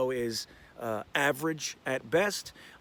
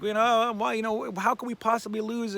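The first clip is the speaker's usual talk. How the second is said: imitating a kid's excited, higher-pitched question; excited son; 8 semitones higher, 3 dB louder than usual. Dad quoting his son at his first home opener, excited. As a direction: voice your son's disbelief, pitched well up. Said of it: "he was so excited".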